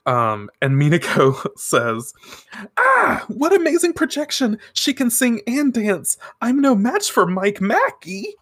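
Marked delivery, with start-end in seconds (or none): 2.8-8.3 high, hammed-up anime heroine; awed dismay. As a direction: gush in mock awe at a rival. Acting out Minako's awed reaction.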